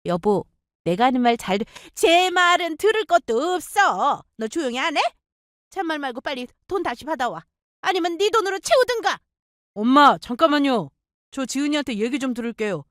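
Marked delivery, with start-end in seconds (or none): 1.9-9.2 put-on high, shouting older woman; furious mother-in-law. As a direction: push past her son and go for her. Mother-in-law cuts son off.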